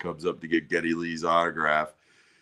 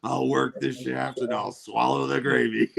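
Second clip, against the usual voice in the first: Jack Black; 4 semitones higher than usual. Retold or imitated. Tied-up man bargaining to be untied, lightly mock pleading. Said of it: "that scene where he's tied up".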